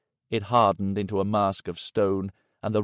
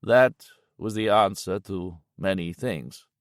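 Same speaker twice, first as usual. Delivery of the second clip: slow, grim and heavy; grim Yanchi voice. Acted. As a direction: say it like a hard truth. Yanchi, grim, after the call.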